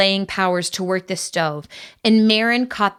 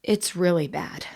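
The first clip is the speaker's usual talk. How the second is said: breathy hushed whisper; secretive whisper; 2 semitones lower, 6 dB quieter than usual. A narrator's reading. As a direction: whisper it so no one overhears. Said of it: "he whispered".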